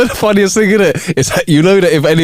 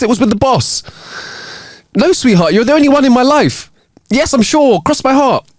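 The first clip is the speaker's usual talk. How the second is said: man on the phone, loud; 8 semitones higher than usual. Acted. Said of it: "started talking in a loud voice".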